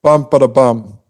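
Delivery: "bum, ba-da-bum" beaten out long, short, short, long; rhythm demo. Shown as a demonstration. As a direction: tap out the choriamb with the voice: "bum, ba-da-bum". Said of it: "So it kinda goes".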